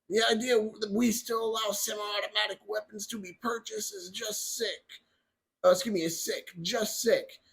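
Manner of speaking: lightly put-on voice for quoting someone else; Biden voice. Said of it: "I have to do my little voice".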